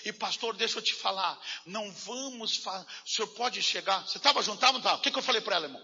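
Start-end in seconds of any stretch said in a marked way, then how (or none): 0.1-4.1 softer, lower worried plea; lightly voiced fearful sister. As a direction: mimic her anxious whispering request. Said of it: "ela dizia assim".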